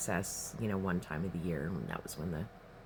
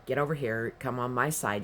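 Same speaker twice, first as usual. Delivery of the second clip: yelling at friend; 3 semitones higher, 3 dB louder than usual. Retold or imitated. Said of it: "I'm yelling at him".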